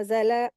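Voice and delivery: "ज़ला" with the l bounced into a vowel; mistaken qalqala. Shown as a demonstration. Teacher isolating the mistake, bouncing laam. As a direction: say "ज़ला" as za-le, letting the l spring off. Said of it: "लाम के ऊपर लोग कलकला करते हैं".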